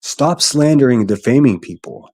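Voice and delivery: earnest, emphatic plea; real, insistent appeal; sincere urging. Real, not acted. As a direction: urge them firmly to stop. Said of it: "And this is sincerely".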